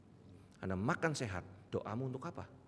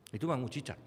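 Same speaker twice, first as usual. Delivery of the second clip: ordinary talk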